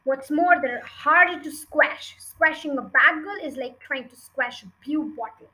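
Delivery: a touch of scorn, emphatic on key words; mildly contemptuous head teacher; lightly voiced stern headmistress.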